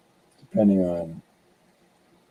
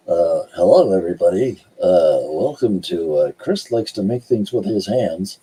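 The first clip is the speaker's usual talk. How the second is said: radio voice; 2 semitones lower than usual. Shown as a demonstration. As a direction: try out a smooth radio announcer read. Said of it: "That's my radio voice".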